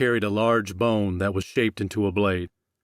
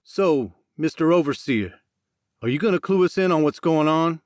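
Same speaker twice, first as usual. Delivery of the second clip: sarcastic; 7 semitones higher than usual. Acted. Jackson mocks Max angrily.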